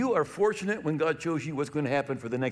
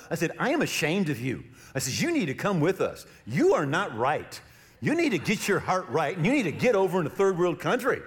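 mild scolding; 4 semitones higher than usual. Retold or imitated. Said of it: "I got mad, a little mad".

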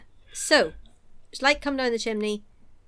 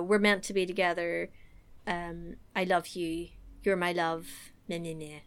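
mocking blah blah; 4 semitones lower, 5 dB quieter than usual. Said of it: "really going in for".

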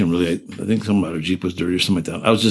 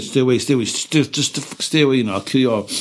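higher, heated warning to stay away; retold angry warning; 5 semitones higher than usual. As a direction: drive the kid off with a raised threat. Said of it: "I was saying to this kid".

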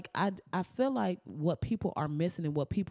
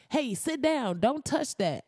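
mild scolding; 8 semitones higher than usual. Retold or imitated. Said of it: "like, yelling".

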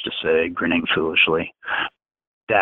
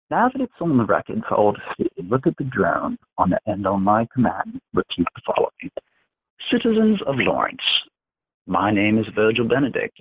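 pitched-up, taunting command voice; Dax dictating; 5 semitones higher than usual. Acted. Dax dictating a humiliating confession to Virgil, taunting and pitched up. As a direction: relish every insult he makes the boy say.

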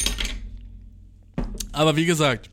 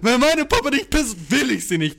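put-on whiny little girl; 5 semitones higher than usual. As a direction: whine it like a spoiled kid. Quoting girls, slower, higher. (höher, langsam, quengelnd)

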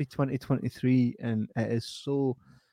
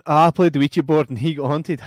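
mocking quote; 3 semitones higher, 7 dB louder than usual. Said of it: "it's like going".

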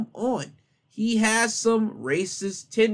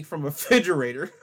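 cracking up; faster than usual. Real, not acted. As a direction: laugh breaking into the reading. Cracks up while reading article.

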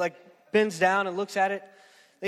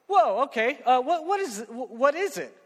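excited laughing; 7 semitones higher, 6 dB louder than usual. Retold or imitated. Man excited at thousand dollars.

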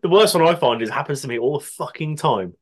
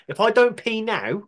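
urgent high plea; 9 semitones higher than usual. Retold or imitated. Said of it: "It's more of a".

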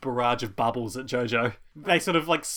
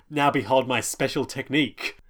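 lightly hammed-up showman's boast; mock gloating; 3 dB louder than usual. Co-host retells a fighter showing off his special technique, mildly gloating. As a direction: announce it with a touch of swagger. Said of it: "he gloats a bit more".

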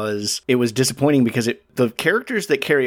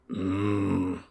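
grunt; 6 semitones lower, 10 dB quieter than usual. Retold or imitated. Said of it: "he just goes around grunting".

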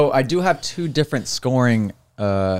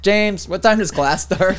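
retold yell into other room; 8 semitones higher, slower than usual. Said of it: "I yell into the other room".

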